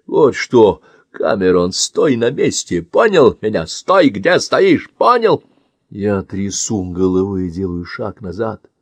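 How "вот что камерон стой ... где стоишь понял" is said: louder, deliberate warning; slow threat. Acted. Man warns Cameron to stay put, slow threat. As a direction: spell out the threat slowly.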